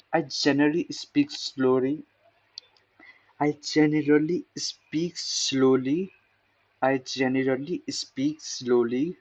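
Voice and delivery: deliberately slow practice phrase, rising at the end; speaking slowly. Shown as a demonstration. Learner telling viewers he speaks slowly, slow delivery. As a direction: space the words out slowly. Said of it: "I will speak slow".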